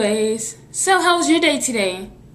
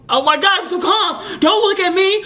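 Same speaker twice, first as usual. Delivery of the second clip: mock flustered; 8 semitones higher than usual. Telling the viewer to stop staring, high mock fluster. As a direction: bristle up high, teasing.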